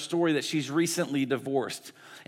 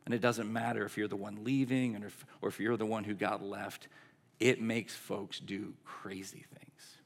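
empathetic; 4 semitones lower, 7 dB quieter than usual. Retold or imitated. Coach consoling the divorced owner, quiet and understanding. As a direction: console gently, leaving room between thoughts. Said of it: "with so much empathy".

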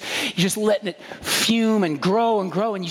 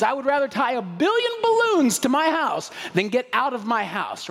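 lightly voiced stubborn old curmudgeon, pitched up; a hint of an indignant homeowner, higher; Mr. Fredrickson; 5 semitones higher than usual. Preacher voices a curmudgeon refusing to leave his house, lightly indignant. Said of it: "He's Mister Fredrickson from Up".

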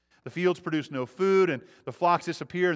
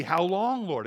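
pleading; 4 semitones higher, 4 dB louder, slower than usual. Retold or imitated. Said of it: "it's a plea".

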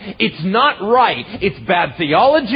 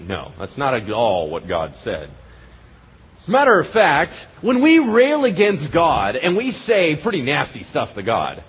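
ordinary delivery

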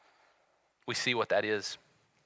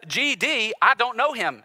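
higher, louder oath of denial; swearing denial; 11 semitones higher, 8 dB louder, slower than usual. Retold or imitated. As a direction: swear it off angrily. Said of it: "he essentially says".

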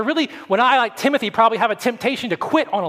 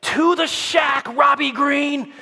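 put-on loud, slow Jersey accent yell; thick New Jersey accent, coach yelling at a runner; Jersey coach shout; 8 semitones higher, 3 dB louder, slower than usual. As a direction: bellow it like a Jersey coach on the track. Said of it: "with this thick Jersey accent".

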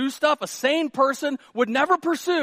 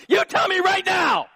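high, shouted mock demand; demanding wife; 10 semitones higher, 4 dB louder than usual. Wife demanding husband's opinion, mock angry shout. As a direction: yell it like a wife cornering her husband.

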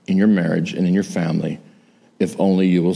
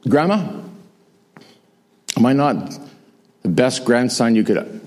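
playful fishing. Retold or imitated. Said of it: "I say to her".

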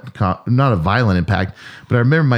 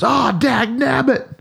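dad's mild curse; much slower than usual. Retold or imitated. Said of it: "but he goes".

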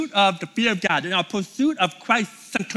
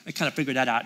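bored mumble; 7 semitones lower, 4 dB quieter than usual. Pretend. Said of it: "Maybe you're like".

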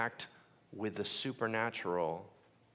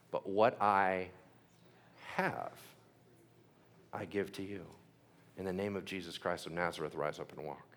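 solemn quote; 6 semitones lower, 5 dB quieter than usual. Retold or imitated. Peter telling the lame man to walk, soft and solemn. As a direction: speak it with quiet authority. Quoting Peter's healing words.

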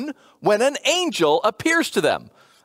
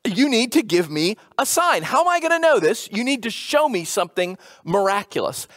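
demanding paraphrase. Retold or imitated. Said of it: "He said to the angel".

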